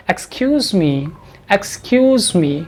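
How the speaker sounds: "Excuse me" very slow, the s of excuse voiced as a z; teacher slowly modelling the verb "excuse me". Shown as a demonstration. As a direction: drag out "excuse me" with a buzzing z. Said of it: "हम इसको ऐसे बोलते हैं".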